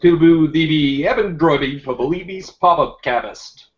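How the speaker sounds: B-inserted speech, warbly like underwater; garbled, bubbling underwater sound. Real, not acted. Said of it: "It sounds like you're underwater".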